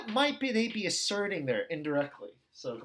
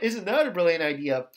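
louder mock praise; sarcastic put-down; 5 dB louder than usual. Groupmate bullying you out of your suggestion, sarcastic. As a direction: shut them down with sarcasm. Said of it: "shuts you down and bullies you".

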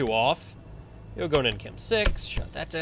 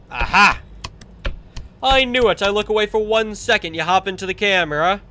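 triumphant gotcha; 3 semitones higher, 4 dB louder than usual. Real, not acted. Catches animatronic on camera.

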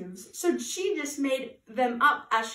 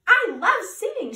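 high, loud burst of delight; delighted exclamation; 8 semitones higher, 9 dB louder than usual. A narrator's reading. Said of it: "she exclaimed".

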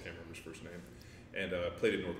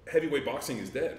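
emphatic lament; 7 semitones higher, 8 dB louder than usual. Real, not acted. Lamenting boxing's decline.

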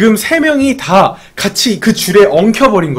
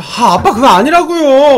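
high, exasperated mock protest to dad; hammed-up fed-up whine, rising in pitch; increasingly angry daughter; 7 semitones higher, 3 dB louder than usual. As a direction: act out a daughter losing patience, pitch jumping up. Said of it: "점점 더 빡쳐서".

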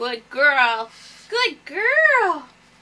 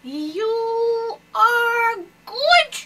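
stretched, sing-song soothing words; slow drawn-out praise; 3 semitones higher, much slower than usual. Real, not acted. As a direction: draw it out, slow and sweet. Praising bird slowly.

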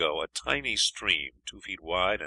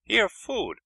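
high, louder pidgin helper voice; a Chinese guide's voice pitched high; 14 semitones higher, 5 dB louder than usual. A narrator's reading. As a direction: offer the food in a high, eager foreign voice. Chinese helper offers food.

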